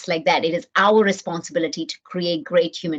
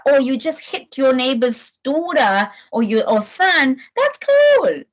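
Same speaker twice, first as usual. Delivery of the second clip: sugary, much higher and slower at the end; mock sweet indulgence; 3 semitones higher, slower than usual. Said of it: "I'm not saying".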